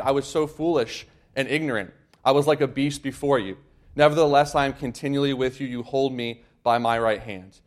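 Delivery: solemn reading voice; scripture reading. Acted. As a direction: read the verses out to the congregation. Reads Psalm 73 aloud.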